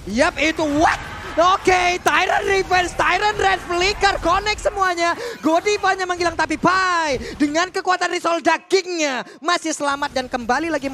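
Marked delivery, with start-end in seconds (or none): 0.0-9.2 excited play-by-play. Real, not acted. Caster calls skill combo live.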